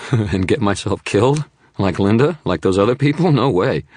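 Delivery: high, loud panicky refusal; terrified witness refusing to help; scared refusal. Acted. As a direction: refuse with a harsh frightened edge. Frightened man refusing, laughing harshly.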